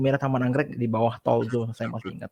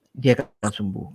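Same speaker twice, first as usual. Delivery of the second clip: whispered; 3 semitones lower, slower than usual. Retold or imitated. Telling the fiancée quietly.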